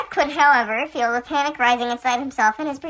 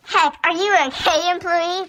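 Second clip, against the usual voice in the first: higher, mildly worried question; lightly acted concern, pitched up; 7 semitones higher than usual. A narrator's reading. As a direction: check on someone with a touch of worry. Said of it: "clearly worried".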